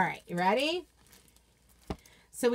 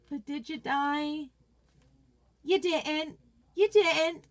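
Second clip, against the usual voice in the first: mom's sassy comeback; 4 semitones higher, slower than usual. Retold or imitated. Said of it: "I used to say this to little Brand".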